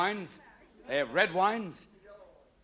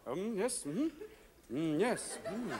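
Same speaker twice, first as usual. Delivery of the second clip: snooty wine taster; 8 dB quieter, slower than usual. Retold or imitated. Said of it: "guys who taste the wines going".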